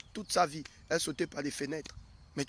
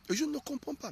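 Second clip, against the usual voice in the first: complaining wife; 9 semitones higher than usual. Acted.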